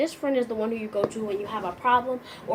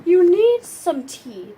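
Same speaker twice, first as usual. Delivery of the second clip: wise friend; 7 semitones higher, 8 dB louder, much slower than usual. Acted. Wise friend prescribes tea.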